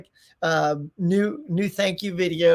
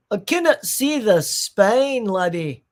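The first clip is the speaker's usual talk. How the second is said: mock Scottish accent; 3 semitones higher, 4 dB louder, slower than usual. Streamer squinting at a listing, mock Scottish accent. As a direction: stretch it out in a playful Scottish brogue. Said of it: "what's with the accent all of a sudden".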